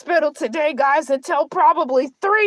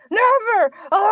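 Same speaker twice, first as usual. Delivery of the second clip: mock shout; 3 semitones higher than usual. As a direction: bark out NEVER with finality. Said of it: "Never again".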